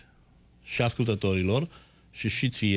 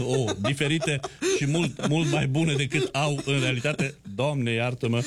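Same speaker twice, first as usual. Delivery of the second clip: laughing through the words, higher pitch; amused laughing; 3 semitones higher than usual. Real, not acted. Host joking with guest about election results, amused laughing.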